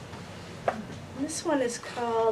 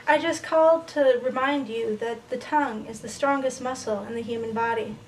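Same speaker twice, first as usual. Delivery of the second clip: measured recital, falling away at line ends; poem reading. Acted. Poet reads a love poem to an audience, measured recital. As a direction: let each listed image land, then pause.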